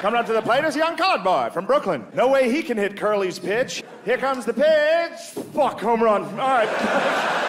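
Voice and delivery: high, nasal-free vintage baseball call; old baseball radio call; old-time radio announcer. Retold or imitated. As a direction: crow it like a 1940s radio booth. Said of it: "You can hear the announcers like".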